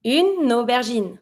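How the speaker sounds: slow "Une aubergine" with the N running into the O; drawn-out liaison in "Une aubergine"; linked N. Shown as a demonstration. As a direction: link "Une aubergine" as u-no-ber-zheen. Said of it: "you'll link it with the N from une".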